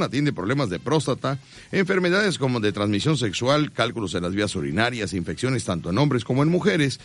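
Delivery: steady announcer sales voice; live radio ad read. Acted. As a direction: sell the doctor to listeners. Reads sponsor ad.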